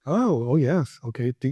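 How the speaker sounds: ordinary talk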